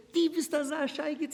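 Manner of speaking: high, loud thick Hasidic Yiddish; the father's heavy Hasidic accent. Retold or imitated. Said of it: "with the thick Chassid".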